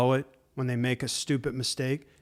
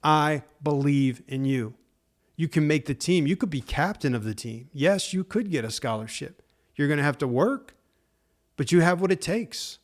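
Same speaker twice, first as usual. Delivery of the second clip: encouraging parent. Pretend. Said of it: "tell them".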